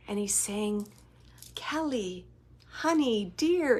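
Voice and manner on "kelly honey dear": a hint of a doting grandfather, lightly raised; grandpa's tender call. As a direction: lightly voice the grandpa calling her sweetly. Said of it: "he's saying it like that".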